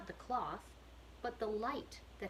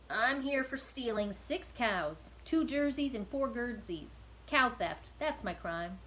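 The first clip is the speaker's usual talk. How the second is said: put-on rough, louder voice of a guilty old prisoner; a weary convict unburdening himself, a bit loud; gruff prisoner; 3 semitones higher, 3 dB louder, slower than usual. Prisoner names his crime.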